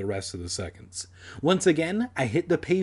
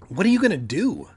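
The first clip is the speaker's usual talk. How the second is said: quick, higher, urgent question; louder hurried asking; breathless question; 6 semitones higher, 5 dB louder, faster than usual. A narrator's reading. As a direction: rush it out breathlessly. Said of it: "she asked breathlessly".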